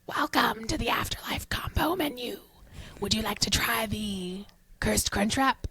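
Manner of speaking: raspy whispered demon speaker. Acted. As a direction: rasp it out like a cursed drive-thru. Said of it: "That's my attempt at being raspy".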